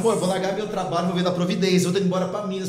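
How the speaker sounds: hammed-up bold declaration; mock announcement.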